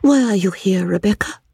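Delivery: solemn hushed question. A narrator's reading. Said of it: "Her solemn glances".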